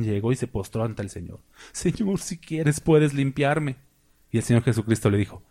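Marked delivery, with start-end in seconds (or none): 1.7-3.8 pleading leper. Retold or imitated. Leper begs Jesus kneeling.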